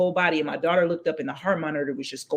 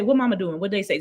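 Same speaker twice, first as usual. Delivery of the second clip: anxious husband; 6 semitones higher, faster than usual. Retold or imitated. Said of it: "he's like".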